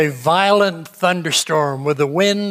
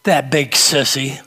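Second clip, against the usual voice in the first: put-on shaky child voice; 4 semitones lower than usual. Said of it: "that little shaky voice said".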